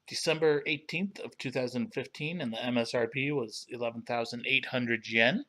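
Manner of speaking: talking through a mouthful of water; mouth full. Real, not acted. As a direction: speak around a sip of water. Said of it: "that was a difficult, uh, mouthful of water to swallow".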